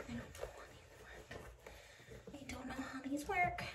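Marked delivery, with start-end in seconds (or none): 0.1-1.4 slow, soft whisper to herself. Real, not acted. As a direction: mutter it under the breath, puzzled. Fumbling with shoe laces.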